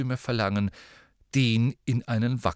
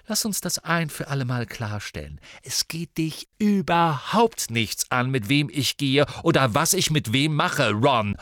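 glaring anger; 4 semitones higher, 4 dB louder than usual. Acted. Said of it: "funkelte Ron wütend an".

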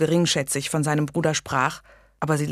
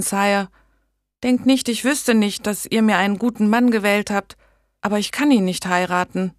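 a lightly voiced young woman, higher and unsure; timid young lady; 5 semitones higher, 4 dB louder than usual. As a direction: ask the king hesitantly, a little higher. Megan pleads with the king.

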